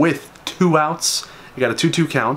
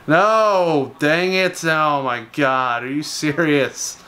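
frustrated outburst; much slower than usual. Real, not acted. Gamer reacting as his runner is thrown out, frustrated. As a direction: blurt it out as the play goes wrong. His steal attempt fails.

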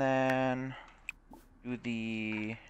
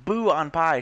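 loud jeering boo, pitched up; mock shout; 5 semitones higher, 8 dB louder, slower than usual. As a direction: boo it loudly at the speaker. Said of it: "shouts the opposition".

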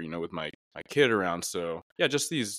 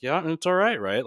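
reassuring; 9 semitones higher, 4 dB louder than usual. Retold or imitated. Voicing himself reassuring his daughter.

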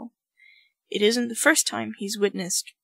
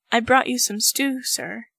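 nervous; 4 dB louder than usual. Acted. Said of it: "he says nervously".

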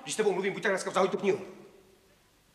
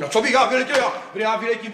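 indignant, slightly raised retort; flaring up; 5 dB louder than usual. Acted. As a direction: bristle at being called hot-headed. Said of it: "Vždycky hned vyletí". (dotčené vyjetí)

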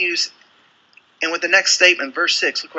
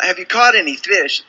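louder, higher call to the boat; 5 semitones higher, 5 dB louder than usual. Acted. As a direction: hail fishermen far out on the water. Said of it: "he's screaming from the shore".

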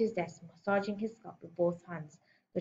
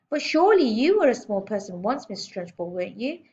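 put-on brave little boy; 4 semitones higher, 6 dB louder than usual.

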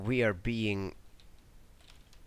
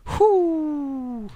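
high, loud whoop of joy; cheering whoop; 5 dB louder than usual. Real, not acted. Gamer whooping after a sweet collateral kill. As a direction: let out a victory whoop.

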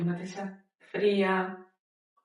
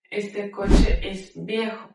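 slow loud model; 5 dB louder, slower than usual. Shown as a demonstration. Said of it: "teacher repeats model phrase".

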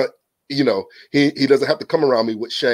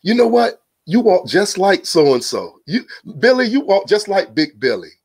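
neighbor voice; 6 semitones higher than usual. Retold or imitated. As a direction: tease the kid about his father, mildly hammed-up. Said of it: "They go".

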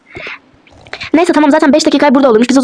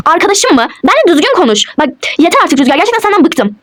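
indignant, higher-pitched reprimand; offended; 4 semitones higher than usual. Acted. Wife objecting to husband calling her friend, offended. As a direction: bristle and tell them off, fed up. Staged quarrel, takes offence.

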